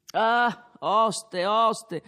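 loud tipsy call to the innkeeper; slurred shout across the room; drunken calling out. Acted. Drunk Renzo calls the innkeeper.

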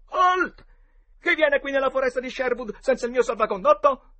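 high, loud sentry's challenge; shouted challenge. A narrator's reading. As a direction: cry halt like a play outlaw. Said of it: "e Tom gridò". (grido di sfida)

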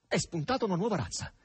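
mild, understated indignation; furious. Acted. Margherita insulting the pimp-like stranger, mildly furious. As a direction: snap the insult with contempt. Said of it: "andò su tutte le furie".

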